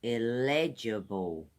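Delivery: illegible said clearly in four beats, il-LEDGE-i-ble; four syllable model. Shown as a demonstration. Teacher modeling illegible for the class, careful. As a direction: give each syllable of illegible its place. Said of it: "It's got four syllables".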